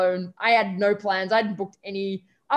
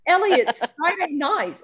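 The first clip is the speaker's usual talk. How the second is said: high, loud, slow disbelieving mum, imitated; incredulous mum; 6 semitones higher, 4 dB louder, slower than usual. Daughter imitating mum stunned by the Tuesday flight, high and slow. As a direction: draw it out like a shocked mother. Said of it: "She was like".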